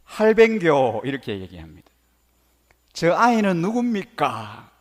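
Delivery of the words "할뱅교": very loud, blunt Gyeongsang dialect. Shown as a demonstration. Teacher showing how Gyeongsang people greet grandfather, loud Gyeongsang accent. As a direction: belt out a compressed Gyeongsang greeting. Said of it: "경상도 버전은".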